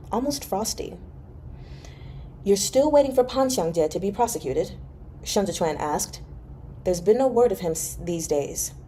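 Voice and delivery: even, measured audiobook reading; story narration. A narrator's reading. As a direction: read the novel aloud to listeners. Resumes reading the novel.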